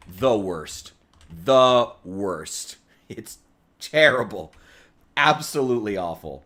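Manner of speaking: real exasperated rant, landing hard on the key words; emphatic disgust. Real, not acted. Streamer rants to viewers about British food, emphatic disgust. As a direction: punch each damning word, with pauses between.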